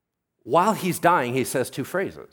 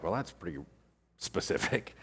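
soft, dry deadpan quip; dry aside; 4 semitones lower, 8 dB quieter than usual. Acted. Preacher reacting to the stoning manual, dry and soft. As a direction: trail off into a breathy, ironic aside.

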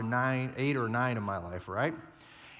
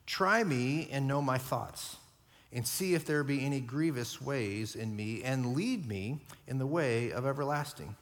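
scripture reading. Shown as a demonstration. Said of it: "Here's what he says".

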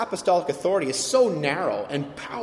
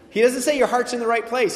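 "say" pressed hard and louder in "He doesn't say your heart's in the right place"; louder, insistent "He doesn't say your heart's in the right place"; emphatic correction; 6 semitones higher, 6 dB louder than usual. Shown as a demonstration. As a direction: correct it firmly, leaning on "say". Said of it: "he doesn't say that".

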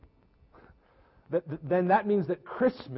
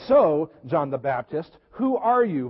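pressing question; 4 dB louder than usual. Acted. Questioners pressing John for answers.

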